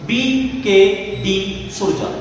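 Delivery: BKD सुरजा drawn out very slowly, as if writing it down; slow dictation. Shown as a demonstration. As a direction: spell out the name slowly for students copying it. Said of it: "dictating the name slowly".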